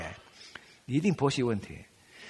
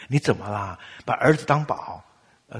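ordinary delivery

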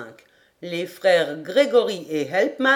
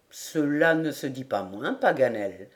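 lower, softer gentle reply; modest smile; 6 semitones lower, 4 dB quieter than usual. A narrator's reading. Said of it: "en souriant modestement".

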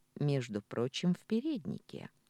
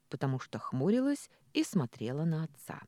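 ordinary delivery, nothing marked

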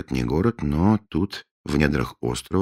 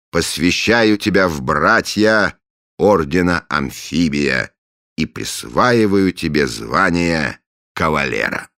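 solemn ritual; 4 semitones higher, 5 dB louder, slower than usual. Acted.

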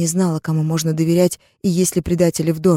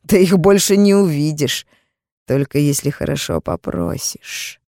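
lightly voiced sleazy hint; 3 dB louder than usual. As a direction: lean into the dirty hint. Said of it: "грязный намёк".

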